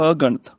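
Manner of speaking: ਅਗਣਤ as "a—ganat"; separated prefix. Shown as a demonstration. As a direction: split ਅਗਣਤ after the short a. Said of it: "ਅਗਣਤ ਪੜ੍ਹਨਾ ਵੈ". (ਅਗਣਤ ਨੂੰ "ਅ-ਗਣਤ" ਬੋਲੋ)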